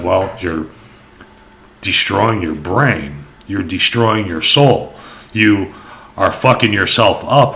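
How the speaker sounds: put-on serious old Indian. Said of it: "he's real serious".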